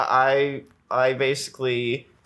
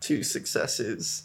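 whispered; 2 semitones lower, 7 dB quieter, slower than usual. Real, not acted. Repeated muttered answer.

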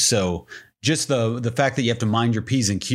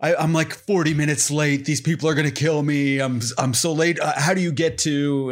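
lightly raised, frantic fake-lost pizza guy; faking panic, lost delivery guy; 3 semitones higher than usual. Prankster to pizza staff, mild mock panic over being late. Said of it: "I acted like I was lost on a delivery".

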